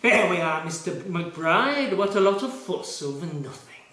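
understated snooty doctor; mocking the doctor. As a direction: lightly sneer the doctor's dismissive words. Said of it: "presents me with the dart".

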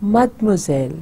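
mademoiselle said in French, mad-mwa-zel; French model word. Shown as a demonstration. Teacher models mademoiselle for students. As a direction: say mademoiselle cleanly. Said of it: "मैं पढ़ती हूँ".

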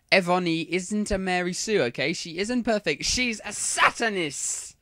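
put-on defensive, huffy teen writer ranting at readers; mock-indignant author's note; whiny teen author. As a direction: snap back at the critics like a touchy fanfic author.

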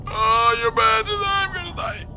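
real dread as you go under; panicked wail. Real, not acted. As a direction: wail it out, terrified. Drowning panic.

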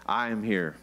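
slow reassurance. Shown as a demonstration. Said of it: "One more time".

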